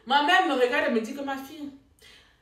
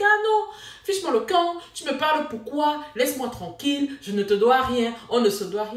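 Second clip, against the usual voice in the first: sharp, louder and higher, pushing him off; angry retort; 4 semitones higher, 4 dB louder than usual. Retold or imitated. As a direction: snap back at him, fed up. Her retort in the car quarrel.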